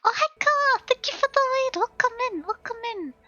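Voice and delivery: high, loud cheery welcome; excited greeting. Real, not acted. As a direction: greet the raider with bubbly joy.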